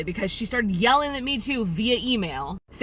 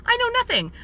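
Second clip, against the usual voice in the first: exasperated; faster than usual. Retold or imitated. Heated rant to the sister.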